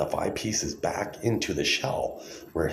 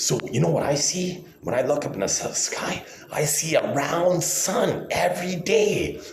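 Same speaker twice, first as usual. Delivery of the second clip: sarcastic; 8 semitones higher than usual. Acted. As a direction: spell it out condescendingly. Sarcastic lecture to flat-earthers.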